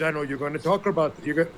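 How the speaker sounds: badly attempted English accent; horrible English accent. Podcaster quoting James the bloke, bad English accent. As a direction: try an English accent and fumble it. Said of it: "that's a horrible English accent".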